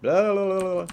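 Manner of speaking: loud, high zombie babble; zombie noises. Pretend. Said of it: "pretend I'm a zombie".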